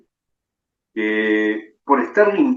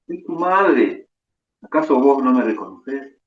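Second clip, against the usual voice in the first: pleading mother; 3 semitones higher than usual. Acted. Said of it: "dice la madre".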